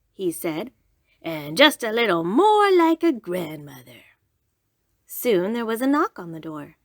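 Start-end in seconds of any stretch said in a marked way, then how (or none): 1.2-4.0 sly whispered aside. Acted. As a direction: whisper it slyly to yourself.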